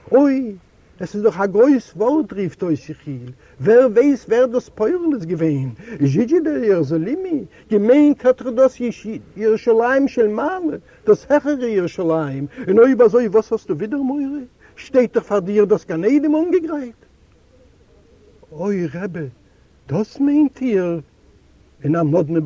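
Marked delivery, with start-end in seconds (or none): 0.1-5.8 excited rebbe. A narrator's reading. Rebbe suddenly elated by words. 6.0-7.5 much higher, joyful reading of Zhidje der Jerusalemi; the rebbe turning the phrase into joy; elated. A narrator's reading. Rebbe reinterprets the blessing joyfully. 7.7-17.0 excited rebbe. A narrator's reading. 18.5-21.0 slowly dawning wonder; the sick man asking the rebbe in disbelief, slow; astonished. A narrator's reading.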